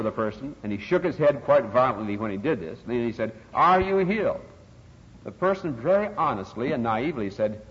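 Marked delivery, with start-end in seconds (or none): 3.5-4.4 faith healer's demand. Retold or imitated. Faith healer questioning, acted.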